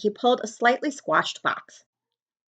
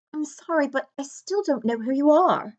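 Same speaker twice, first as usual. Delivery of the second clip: shy question; 6 semitones higher than usual. Acted. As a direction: ask politely but puzzled. Harry asks the giant.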